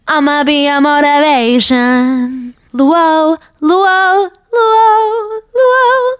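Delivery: slow, rising sing-song calling Luo; teasing sing-song. Acted. Mock sultry official taunting Luo.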